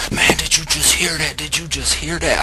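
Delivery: high, loud disbelieving questions; imitated astonishment. Friend stunned that his dog just spoke, astonished. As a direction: play a stunned friend, voice jumping up.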